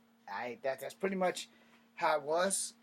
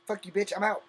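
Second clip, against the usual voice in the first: higher and louder imitated brush-off; mock yell; 5 semitones higher, 6 dB louder than usual. Imitating the kids' absent parent quitting, a mock yell. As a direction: fling it like the parent walking out. Mocking the parent who left.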